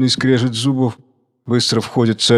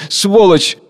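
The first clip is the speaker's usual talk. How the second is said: second curse higher and louder; cursing louder; 7 semitones higher, 4 dB louder than usual. Acted. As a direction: spit the word out harder. Orator cursing a book.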